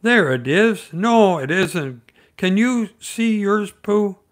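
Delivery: put-on high and loud, eager child asking; excited Roo. A narrator's reading. Roo asking Piglet at the bridge, eager and high. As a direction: bounce up on the question. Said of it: "said Roo".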